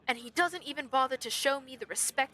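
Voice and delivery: pompous, aggrieved royal complaint; pompous prince. Acted. Prince complaining about his rascal brother, pompous. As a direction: grumble grandly about disrespect. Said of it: "absolutely most pompous voice".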